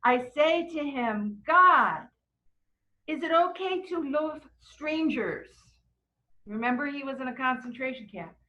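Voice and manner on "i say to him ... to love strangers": lightly voiced elderly-style plea, lifted in pitch; a hint of the man's earnest questioning; retold survivor's voice. Retelling a survivor asking God about strangers, lightly voiced. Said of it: "I can't say it in his, his accent, but he's like".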